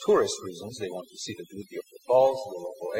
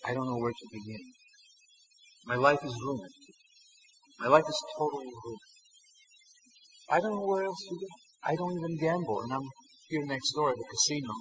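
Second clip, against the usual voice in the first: tearful; 3 semitones higher than usual. Retold or imitated. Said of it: "And he started crying".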